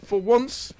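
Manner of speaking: animated esports caster; excited play-by-play. Real, not acted. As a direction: keep up with the action.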